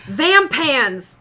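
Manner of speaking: proud eureka shout, punched out; triumphant. Real, not acted. Friend proudly shouts her new vampire word. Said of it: "I figured it out".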